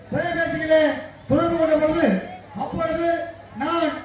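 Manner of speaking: lofty political stage speech; politician on stage. Retold or imitated. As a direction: address the crowd like a politician. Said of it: "எப்படி பேசுவாங்க?".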